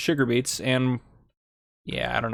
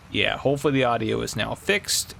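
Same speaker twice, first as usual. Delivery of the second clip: normal talking voice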